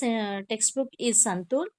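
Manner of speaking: "Santur" mit langem oo, wie "Sand-tuhr"; Santur said clearly. Shown as a demonstration. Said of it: "Say word book".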